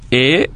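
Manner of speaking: "é" alone as one beat; separated syllable. Shown as a demonstration. Teacher numbering the parts of école, each set apart. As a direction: say é detached from the rest of école. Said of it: "première syllabe".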